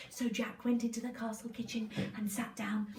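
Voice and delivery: hushed storytelling whisper. Real, not acted.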